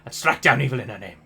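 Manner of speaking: heroic herald reading out an honour; measured, rousing ceremonial delivery; grand proclamation reading. Acted. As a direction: proclaim it like a royal decree. Reads game proclamation in grand style.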